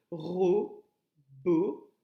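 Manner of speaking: "robot" in two loud, detached beats; syllable by syllable. Shown as a demonstration. Teacher repeating the count for pupils, "robot" syllable by syllable. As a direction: punch out ro, then bot, in "robot". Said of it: "deux syllabes".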